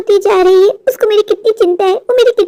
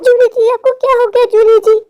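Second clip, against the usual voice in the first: higher-pitched startled questioning; alarmed; 4 semitones higher than usual. Acted. Vicky seeing Julie transform, alarmed. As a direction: cry out in rising alarm.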